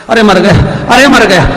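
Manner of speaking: hammed-up pained yelling; husband yelling in pain. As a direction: howl as if struck with a stick. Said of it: "पति चिल्लाए".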